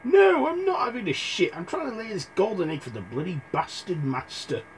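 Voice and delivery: high squawky goose; high-pitched grumpy goose. Acted. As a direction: play the goose, high and put out. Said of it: "The goose went".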